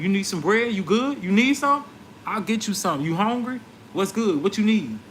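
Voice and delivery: mock concern. Retelling taunting the rude man at the crosswalk, sarcastic concern. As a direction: pile on the sarcastic offers of help.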